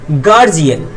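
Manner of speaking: "गार्जियन" ending in a clear "iya-n" glide. Shown as a demonstration. Teacher giving an example of IA, "गार्जियन" with an "iya" glide. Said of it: "या हो जाता है".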